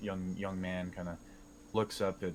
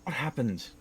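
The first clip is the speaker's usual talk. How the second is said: higher, anxious questions; worried; 4 semitones higher than usual. Acted. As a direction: fret over a loved one. Worried reunion with Indy.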